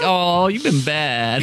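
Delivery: slow, lightly voiced scolding teacher; kindergarten teacher voice. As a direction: gently scold like a teacher of small kids. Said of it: "it's a kindergarten teacher".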